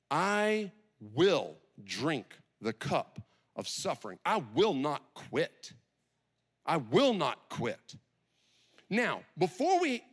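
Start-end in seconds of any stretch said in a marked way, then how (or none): 0.1-8.0 slow, deliberate vow with spaced words; measured determination, word by word; resolute. Acted. Jesus vowing to drink the cup of suffering, resolute. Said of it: "the resolve in Jesus's mind".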